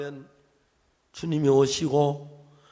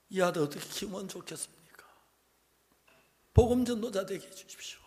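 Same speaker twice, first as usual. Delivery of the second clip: whispered prayer; 12 dB quieter than usual. Acted. Acted whispered prayer to God.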